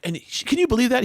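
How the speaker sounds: high mock indignant wife; mock outraged wife. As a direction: pitch up, gossip outrage. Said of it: "she'd be like".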